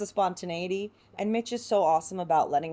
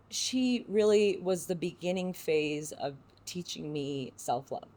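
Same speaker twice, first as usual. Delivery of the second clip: slow, halting, real emotion; tender, moved remembrance; emotional; slower than usual. Real, not acted. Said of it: "I'm getting emotional".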